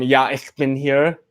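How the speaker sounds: slow "Ja, ich bin hier", rising on "hier"; improved pronunciation attempt. Shown as a demonstration. Streamer thanks a viewer by username, improved pronunciation attempt. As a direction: say "Ja, ich bin hier" carefully, lifting "hier" hopefully. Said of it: "improved username pronunciation attempt".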